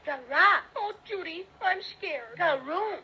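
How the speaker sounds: hammed-up mock fright; pretend fear. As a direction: play at being scared. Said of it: "let's pretend we're really afraid".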